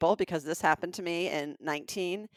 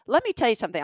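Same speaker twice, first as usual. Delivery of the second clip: raised, emphatic imitation of a mother; higher-pitched mother voice; mother's pep talk; 5 semitones higher, 4 dB louder, much faster than usual. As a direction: lay down the law as mom. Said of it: "She said".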